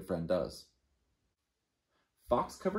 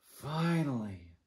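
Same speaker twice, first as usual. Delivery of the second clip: relieved sigh; 3 semitones higher, slower than usual. Acted. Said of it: "said his friends".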